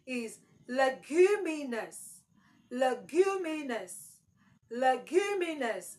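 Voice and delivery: "leguminous" said slowly, LEG first and strong; "Leguminous" repeated, first syllable stressed. Shown as a demonstration. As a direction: drill "Leguminous" with weight on LEG. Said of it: "must be on the first syllable".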